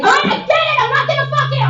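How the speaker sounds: high, loud, exasperated outburst; loud sharp voice. Retold or imitated. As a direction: blurt it out, fed up. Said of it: "Do I have to use my mom voice?".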